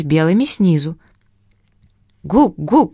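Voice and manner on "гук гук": penguin call. Acted. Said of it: "говорил пингвин".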